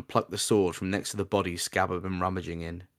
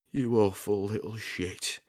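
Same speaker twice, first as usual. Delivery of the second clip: dying man; slower than usual. Acted. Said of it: "the man managed to utter".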